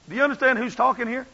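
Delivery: ordinary delivery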